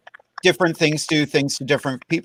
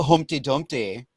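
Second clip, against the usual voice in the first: put-on Manchester accent; 6 dB quieter than usual. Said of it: "like, U sound to the accent".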